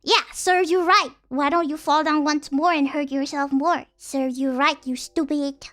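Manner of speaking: loud mock-polite sarcasm; sarcastic parent. Parent mocking a kid who fell, sarcastic and loud. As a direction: jeer at the fallen kid. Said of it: "you go".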